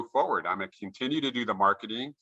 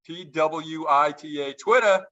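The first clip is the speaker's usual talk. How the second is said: catchphrase exclamation; 6 semitones higher, slower than usual. Shown as a demonstration. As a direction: shout the slogan out like a win. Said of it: "I'll shout it out".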